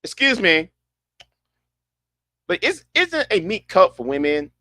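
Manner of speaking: rough attempt at a British accent; half-successful British accent; British impression. Shown as a demonstration. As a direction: try a British accent, not quite managing it. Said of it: "Let me do my British impression".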